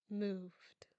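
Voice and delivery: a hushed, breathy reveal; whispered. A narrator's reading. Narrator whispering the reveal to listeners, hushed. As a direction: drop to a whisper for the twist.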